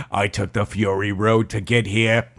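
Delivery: put-on improvised Kennedy-style accent; JFK. Voicing a skydiver back from the sandstorm, accidental Kennedy accent. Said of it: "made him sound like J F K".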